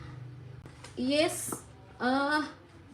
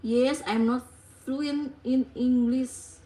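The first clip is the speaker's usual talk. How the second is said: slow careful English; 2 semitones lower, slower than usual. Shown as a demonstration. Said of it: "Coba tulis, guys".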